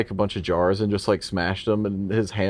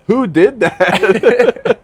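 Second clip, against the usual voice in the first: mock alarm; 10 semitones higher, 6 dB louder, much slower than usual. Joining the acted scene.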